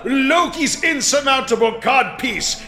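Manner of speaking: booming theatrical god king; hammy stage actor. Acted. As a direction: ham it up as a Norse god. Plays Odin.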